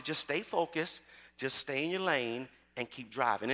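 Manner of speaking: low, soft, unhurried reassurance; softly voiced steady mama; calm coaching mother. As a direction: coach a nervous driver gently and steadily. Mother coaching nervous daughter, story.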